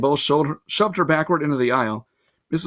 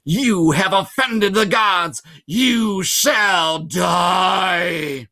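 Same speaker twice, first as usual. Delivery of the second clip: slow, louder monster voice, higher; a demon teacher pronouncing a death sentence, very slowly; menacing Fury; 5 semitones higher, 4 dB louder, much slower than usual. A narrator's reading. Monster teacher threatens the hero.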